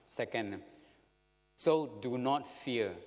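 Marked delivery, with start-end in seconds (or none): 1.6-2.9 slow, steady assurance; slow down to reassure, mildly; reassuring. Acted. Joseph promising to provide for his brothers, slow reassurance. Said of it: "comfort, assurance".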